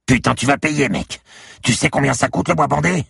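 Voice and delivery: loud, high-pitched indignant outburst; cursing angrily. A narrator's reading. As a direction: curse out the man who broke your goods. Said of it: "Fripette pesta". (juron indigné, aigu et fort)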